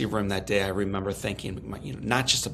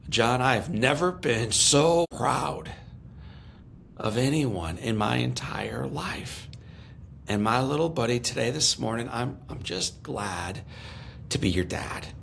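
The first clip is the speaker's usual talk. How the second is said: tender father; 3 semitones higher than usual. Retold or imitated. Father to his burned son in hospital, tender and slow. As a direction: say it gently, like a proud dad choking up a little.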